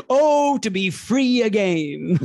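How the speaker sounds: slow, lofty and wistful; dramatic Frasier sigh. Retold or imitated. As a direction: sigh it out like a pompous sitcom snob. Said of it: "it's like Frasier's quitting his job".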